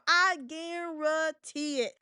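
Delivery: slow, drawn-out catchphrase; Charles Barkley. Acted. Host repeating a pundit's catchphrase, slow light impression. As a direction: lightly mimic a sportscaster, stretching the words. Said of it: "you know where I got that from".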